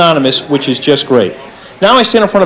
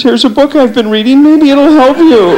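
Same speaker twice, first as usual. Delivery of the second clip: higher, slow helpful dog voice; kindly dog; 6 semitones higher than usual. Retold or imitated. Second dog consoling the sad one, higher and slow. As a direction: offer it gently and slowly, a kind friend. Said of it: "Another dog walks over and says".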